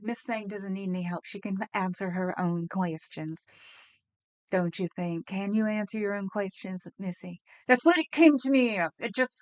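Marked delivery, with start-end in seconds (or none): 0.0-7.4 condescending imitation. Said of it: "He's talking down to all".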